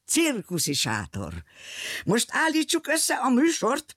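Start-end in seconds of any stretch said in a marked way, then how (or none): 2.1-3.9 clown voice. Acted. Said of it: "mondta a bohóc".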